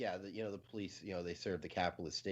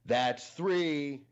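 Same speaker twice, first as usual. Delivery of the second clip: louder, higher deadpan count; a flat death sentence; mock stern count; 6 semitones higher, 6 dB louder than usual. Amish man answering his wife, mock stern. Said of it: "he looks at his wife and he goes".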